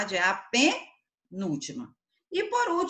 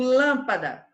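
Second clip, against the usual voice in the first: lâmpada with a strong first syllable; lâmpada, stressed on its first syllable; stress on LÂM; 5 dB louder, slower than usual. Shown as a demonstration. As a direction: hit the lâm of lâmpada, let the rest fall away. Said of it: "qual sílaba é pronunciada com mais intensidade".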